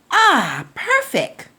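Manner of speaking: high, excited cry of delight; a little old woman finding the perfect heart; delighted exclaim. Acted. Old woman delighted with her find, high and excited. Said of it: "exclaimed the little old woman".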